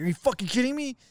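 high-pitched incredulous question; retold annoyance. Asked for another cigarette, mad and incredulous. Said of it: "I just kept getting more mad".

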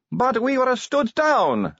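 high, slow whining complaint; complaining. A narrator's reading. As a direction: whine about being stood down. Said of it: "Sally complained".

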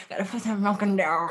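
lightly mimicking her hushed line; mock imitation. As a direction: parrot her words back, teasing. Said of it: "Why did you say it like that?".

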